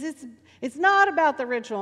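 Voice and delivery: riled-up preacher. Retold or imitated. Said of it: "he would get into this kind of rhythm".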